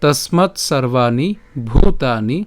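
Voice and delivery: slow, measured Sanskrit shloka; deliberate chant-like reading, pausing between phrases; verse recitation. Shown as a demonstration. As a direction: recite slowly with long vowels. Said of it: "আমি আবার যদি প্রথম থেকে বলি".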